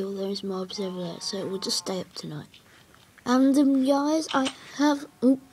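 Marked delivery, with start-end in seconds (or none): 0.0-2.5 unvoiced whisper to himself. Real, not acted. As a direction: breathe it under your breath. Mutters aside while playing.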